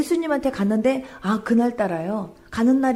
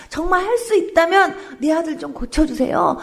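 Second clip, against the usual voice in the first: higher, louder desperate plea; father begging Jesus, desperate and louder; pleading father; 6 semitones higher, 3 dB louder than usual. Retold or imitated. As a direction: beg harder, voice rising. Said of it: "이러면서 막 애원을 한 거예요".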